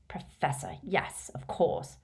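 slow, breathy scoffing aside; mock the title under his breath; sarcastic aside. Riddle mocking the professor title, sarcastic.

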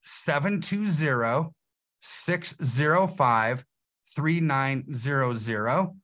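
phone number slowly, digit by digit; slow it down with pauses between groups for note-takers. Shown as a demonstration. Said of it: "and say it slower".

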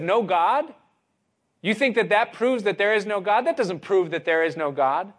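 smiling rebuttal. Acted. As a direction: answer back with a big smile. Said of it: "with a big smile on his face".

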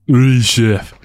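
put-on a hammy French chef accent. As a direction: play a mock French chef. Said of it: "Viking French accents".

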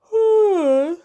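high, loud drawn-out cry. A narrator's reading. Pedro stirs from the enchantment, crying out. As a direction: let out a long high wordless cry. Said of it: "Pedro gilt".

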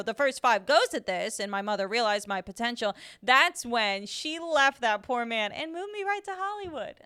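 lightly voiced old Hollywood actress; a hint of a vintage starlet; old-timey starlet interview. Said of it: "a response in an interview, in an old-timey interview".

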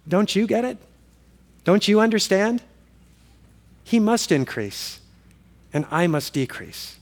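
quiet, gentle reply; calm. Retold or imitated. John calmly answering his anxious disciples, softly. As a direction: answer softly, unhurried and settled. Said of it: "John just calmly says".

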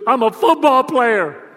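now he means it; said with conviction. Retold or imitated. Son finally declaring it like he means it, firm. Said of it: "He goes".

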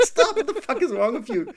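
put-on a girlfriend snapping at a prank; hammed-up high yell, quoted; retold yell. Girlfriend yelling at reversing joke.

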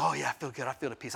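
soft, low, soothed; peaceful contentment. Retold or imitated. Wife reassuring her husband after prayer, peaceful. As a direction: settle into quiet relief.

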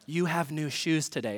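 imitated teacher whisper. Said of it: "whisper a sentence".

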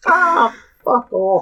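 put-on slow Scottish accent, laughing; a laughing Scottish accent, drawn out. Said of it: "get into a Scottish".

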